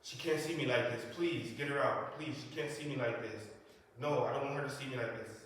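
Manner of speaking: loud, urgent begging; desperate pleading. Retold or imitated. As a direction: beg them to get her out. Pleading to keep mom away.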